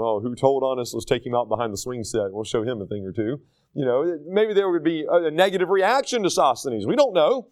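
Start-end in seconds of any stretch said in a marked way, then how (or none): 0.0-3.4 low, mock-menacing bully; playground bully. Playground guys threaten the tattler, low and mock-menacing. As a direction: threaten like a schoolyard tough. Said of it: "like the guys on the playground".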